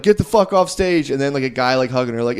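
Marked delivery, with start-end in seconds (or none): 0.0-1.1 mock angry yell. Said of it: "And Sarah like".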